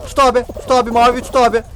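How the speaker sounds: urgent calling. Real, not acted. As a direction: urge a teammate on mid-game. Urgently calling orders during the game. (telaşlı, ısrarlı seslenme)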